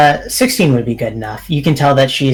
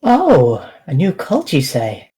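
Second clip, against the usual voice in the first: feigned surprise; 3 semitones higher than usual. Acted. NPC feigns innocent surprise.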